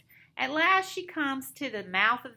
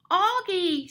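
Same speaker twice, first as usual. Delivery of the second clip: high, eager call; high-pitched storybook cry of recognition; 7 semitones higher, 4 dB louder than usual. A narrator's reading. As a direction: cry out the name in answer. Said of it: "she cries".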